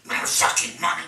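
imitating a stubborn old poet snapping back; retold outburst. Jack rejects the money argument, mock angry retort. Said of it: "Jack was like".

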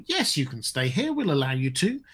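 softly condescending permission with a swooping tune; mock gracious. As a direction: imitate elves granting a great favour. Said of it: "as if this is some gracious thing".

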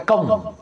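short resonant bang imitation; spoken sound effect; imitated clang. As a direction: imitate a sudden "kom" noise. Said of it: "Bunyi lagi".

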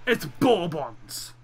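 slow "bourbons" with BOR in the first syllable; corrective pronunciation. Shown as a demonstration. Correcting a friend's word for the biscuit, slow and emphatic. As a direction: draw out "bourbons" as BOR-buns. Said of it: "why do you call them bourbons".

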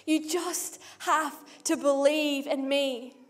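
slow, deliberate, each word weighed; slow emphatic repeat. Acted. Preacher repeating Jesus' answer to the crowd, slow and deliberate. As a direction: stretch it out to let it land.

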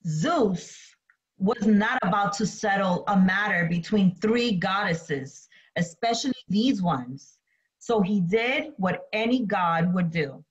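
measured read-aloud with pauses between phrases; slow story reading. Real, not acted. Teacher reads myth while students draw notes, slow story reading. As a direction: read it slowly, leaving room for note-taking. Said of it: "I'm going to read the story slowly".

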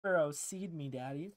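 soft seductive murmur, laughing; hammed-up seduction; sultry voice. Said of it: "Interesting take on Sultry".

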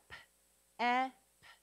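P-E-P as p, short eh, p with pauses; each sound of P-E-P alone, not letter names. Shown as a demonstration. Teacher sounding out a syllable, P-E-P sound by sound. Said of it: "Sound it out".

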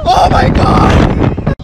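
very high, slow terrified cry; terrified scream. Real, not acted. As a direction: draw it out as the ride drops. Screaming on the ride.

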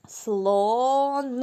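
Слон drawn out to the final Н; sounding out. Shown as a demonstration. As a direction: stretch Слон to its last sound. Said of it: "І останній який звук". (протяжно, виділяючи останній звук)

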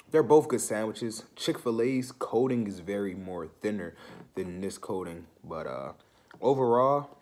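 chewing while talking; speaking between bites; mouth full of food. Real, not acted. Seen 2: sandwich held at open mouth, biting and chewing throughout the speech.

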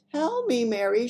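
high, strained, loud plea; strange strangled voice. A narrator's reading. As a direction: squeeze the words out in shock. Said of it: "strangled sort of whisper".

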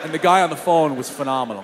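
ordinary talk

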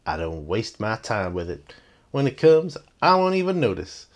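cool movie fighter, quoted; Williams. Acted. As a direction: lightly imitate a confident film hero. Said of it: "He goes".

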